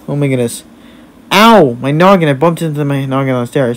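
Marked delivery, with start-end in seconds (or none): 1.3-1.8 high, loud "ow"; pained yelp. Pretend. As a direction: yelp as if bumping your head. Bumps head on the stairs.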